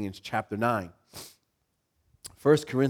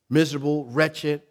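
usual speaking voice

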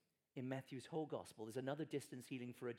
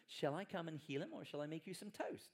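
mock casual offer; 3 semitones higher than usual. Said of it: "we're like".

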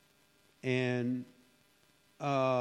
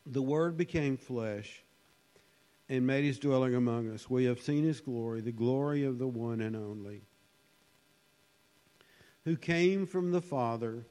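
scripture reading. Acted. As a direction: read the verses with reverence. Reads scripture aloud.

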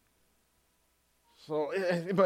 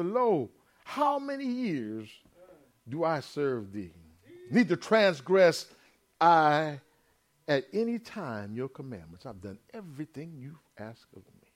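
put-on aggrieved older son; 3 semitones lower than usual. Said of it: "he answered and said to his father".

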